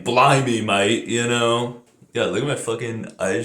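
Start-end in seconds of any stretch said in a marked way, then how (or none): 0.0-1.1 mock Australian catchphrase; stereotypical Australian accent. Shown as a demonstration. Vlogger mocking how Australians supposedly talk, stereotypical Australian accent. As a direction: put on a brief cartoon Aussie accent. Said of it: "stereotypical accents are not what everyone sounds like".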